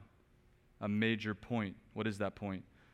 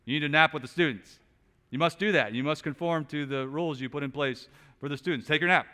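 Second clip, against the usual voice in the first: louder, pushy pretend scolding; mock demand; 4 semitones higher, 6 dB louder, faster than usual. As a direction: boss the teacher around in jest. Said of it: "charge the teacher".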